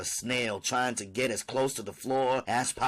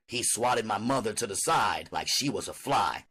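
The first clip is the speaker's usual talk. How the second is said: ordinary delivery, nothing marked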